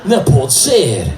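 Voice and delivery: slow amazed disbelief; slow stunned accent; disbelieving Portuguese accent. Retold or imitated. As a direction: drag it out in wonder. Fan disbelieving.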